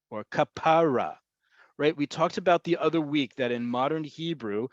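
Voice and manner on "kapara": kapara pronounced ka-PA-ra, middle syllable emphasized; stress on second-to-last syllable. Shown as a demonstration. Teacher repeating the endearment for students, kapara stressed on PA. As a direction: put the weight on "PA" in kapara. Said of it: "listen to how I say it".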